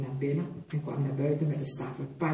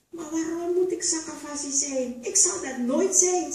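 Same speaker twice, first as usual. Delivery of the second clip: much higher, defiant refusal; rebellious; 10 semitones higher than usual. A narrator's reading. The girl defies Sasa's advice, rebellious. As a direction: refuse it outright. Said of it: "zei het meisje opstandig".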